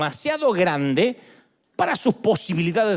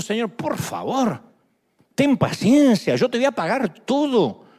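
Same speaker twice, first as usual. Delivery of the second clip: pleading servant; 3 semitones higher than usual. Acted. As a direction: beg the king for more time. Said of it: "le suplicaba diciendo".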